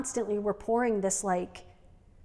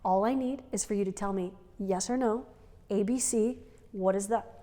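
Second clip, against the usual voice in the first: softer, patient spelling-it-out voice; talking to a toddler; 4 dB quieter than usual. Retold or imitated. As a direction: coax a fussy kid through a simple choice. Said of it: "I, like, brought my octave down".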